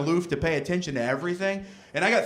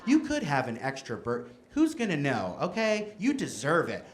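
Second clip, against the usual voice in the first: soft inner voice; 3 semitones lower, 6 dB quieter than usual. Retold or imitated. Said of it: "you start talking to yourself".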